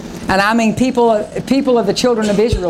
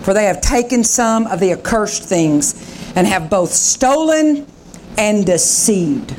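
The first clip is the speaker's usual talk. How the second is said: voice of the Lord; 2 semitones lower, slower than usual. Acted. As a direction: speak as God rebuking a servant. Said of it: "the Lord said to Joshua".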